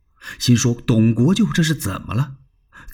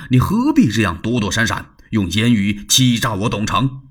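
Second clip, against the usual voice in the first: angry Dong Cheng. Acted. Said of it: "董承火了".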